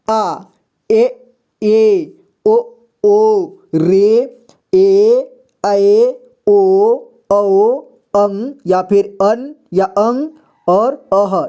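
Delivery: each vowel called out slowly and clearly; vowel demo. Shown as a demonstration. Teacher reciting the vowels slowly for pupils. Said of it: "इसे पढ़ते हैं अ".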